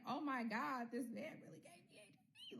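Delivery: high, hushed squeak of disbelief; acted shocked realization. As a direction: let it rise and thin into a near-whisper. Recalls realizing he infected her.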